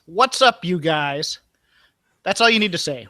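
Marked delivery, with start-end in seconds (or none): 0.1-1.4 lightly voiced, casual greeting; tossed off like a wrestler's intro; catchphrase demo. Shown as a demonstration. Coaching Anna on the catchphrase, lightly voiced greeting. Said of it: "Anna, practice this".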